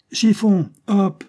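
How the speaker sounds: high, loud summons; calling out. A narrator's reading. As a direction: call the child over sharply. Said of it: "Il appela".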